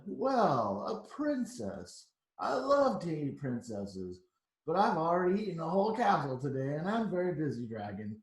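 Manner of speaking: a bored, busy dragon brushing her off. Acted. Storyteller voicing the dragon at the door, a touch gruff. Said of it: "he says".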